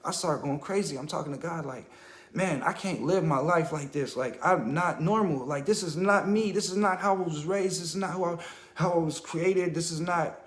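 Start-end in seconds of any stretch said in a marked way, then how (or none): 2.3-10.4 louder, pleading cry to God; desperate plea. Retold or imitated. He pleads with God, louder and desperate. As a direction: beg God to make it stop.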